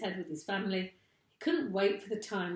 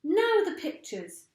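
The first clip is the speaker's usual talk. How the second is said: eager cry; 10 semitones higher, 6 dB louder than usual. A narrator's reading. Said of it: "cried Mugglewump".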